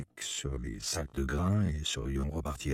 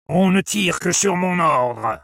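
high, slow, loud command; soldier's shout; 12 dB louder than usual. A narrator's reading. Soldier to armed villagers before any firing, shouted order. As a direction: shout the order across the crowd. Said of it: "a crié le soldat".

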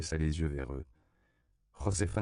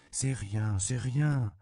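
put-on consoling child; 6 semitones higher, much slower than usual. Child consoles crying man.

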